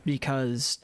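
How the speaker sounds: whispered aside under breath. Real, not acted. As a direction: breathe it almost silently. Muttered aside while looting.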